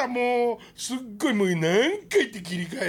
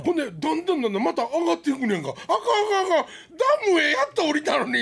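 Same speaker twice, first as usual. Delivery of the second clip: laughing; 8 semitones higher, 4 dB louder, faster than usual. Real, not acted. Laughing at his own mishap.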